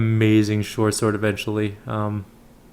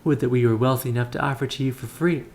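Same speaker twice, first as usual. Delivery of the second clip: lightly put-on southern accent, lilting up on key phrases; mild southern accent, courteous merchant; 4 semitones higher than usual. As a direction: play the sister with a hint of southern accent. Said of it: "she has a southern accent".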